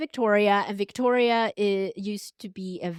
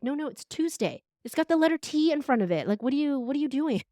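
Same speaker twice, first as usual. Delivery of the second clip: mock bossy teacher; 7 semitones higher, faster than usual. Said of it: "And I'm like".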